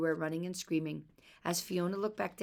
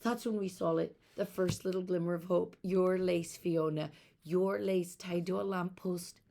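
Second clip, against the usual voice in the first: father crying out; 3 semitones higher, 4 dB louder than usual. Acted. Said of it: "their father cried".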